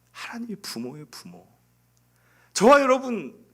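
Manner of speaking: usual speaking voice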